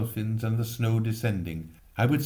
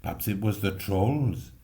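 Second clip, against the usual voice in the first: put-on bookish boy; 2 semitones lower than usual. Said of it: "Dan said".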